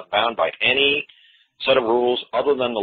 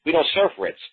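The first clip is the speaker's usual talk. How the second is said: baffled cashier; 7 semitones higher than usual. Pretend. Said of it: "the lady in the window would be like".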